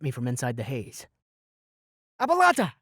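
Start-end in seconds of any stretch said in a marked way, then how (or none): 2.2-2.7 high, loud incantation cry; shouted spell. A narrator's reading. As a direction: hurl the spell out.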